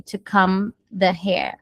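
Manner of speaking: comb said with the mouth closed on the m and no b; slow, careful comb ending on m; silent b in comb. Shown as a demonstration. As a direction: comb without the final b sound. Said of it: "vou fechar a boca no M".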